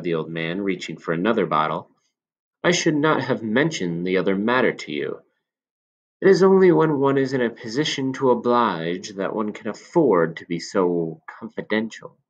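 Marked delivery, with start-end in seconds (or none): 2.6-12.2 lightly voiced sly old man, a bit higher; a knowing old shopkeeper confiding.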